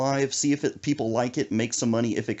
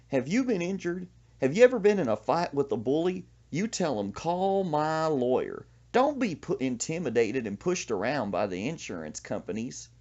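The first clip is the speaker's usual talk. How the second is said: high-pitched, hammed-up pitchman imitation; playing the lawyer in a cheesy local ad; mock TV lawyer ad; 5 semitones higher than usual. Mocking a hometown lawyer's TV ad, hammed-up pitchman.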